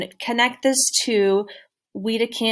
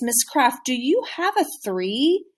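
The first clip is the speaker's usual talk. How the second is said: stressed, marked rising tone on have a three; 3 semitones higher than usual. A teacher models asking a classmate for a card; stressed question intonation. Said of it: "you might really stress the question part".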